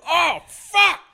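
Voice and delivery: high, slow panicked yell; freaking out. Retold or imitated. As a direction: flip out in a high-pitched panic. Pacino freaking out, retold.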